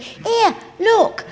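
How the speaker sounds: high excited calling out; high thrilled shout from the window; staff calling out. Retold or imitated. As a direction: call to the others, thrilled. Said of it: "They went".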